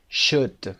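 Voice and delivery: should said as shed, no L; should with silent L. Shown as a demonstration. Teacher modelling should without the L. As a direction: drop the L in should.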